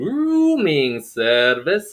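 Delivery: put-on Middle Eastern accent. Recalling a stage role's opening line at the door: put-on Middle Eastern accent, long O. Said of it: "with the oohs".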